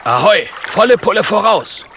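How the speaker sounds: loud, high, cheering shout; rally the crew full speed; joyful call. Acted. Polar bear cheering the crew onward, a loud happy shout. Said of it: "ruft Björn freudig".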